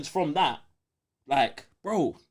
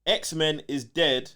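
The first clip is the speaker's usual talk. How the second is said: reading slowly; slower than usual. Retold or imitated. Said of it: "Man said".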